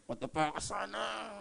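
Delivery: very soft grumble to yourself; unspoken angry thought. Acted. What is in your mind while angry, very quiet aside. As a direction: let it slip out barely voiced. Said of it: "Yung nasa isip mo".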